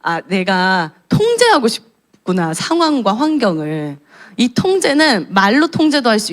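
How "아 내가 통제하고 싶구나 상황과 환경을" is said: slow, understanding; God gently naming her need to control, slow; God's gentle voice. Retold or imitated. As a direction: say it as God seeing through her. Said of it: "하나님이 그런 저를 보면서".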